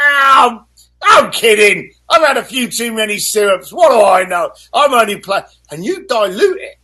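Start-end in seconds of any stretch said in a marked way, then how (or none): 0.1-5.4 backpedalling laugh-off. Retold or imitated. Voicing backing down.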